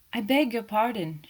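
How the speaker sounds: out of breath, calling out; breathless from running. Acted. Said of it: "she cried breathlessly".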